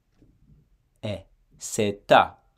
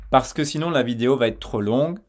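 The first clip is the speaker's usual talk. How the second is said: ordinary delivery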